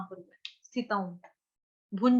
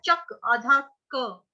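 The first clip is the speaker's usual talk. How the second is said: slow spelling; much slower than usual. Shown as a demonstration. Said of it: "च के साथ आधा क जोड़ेंगे".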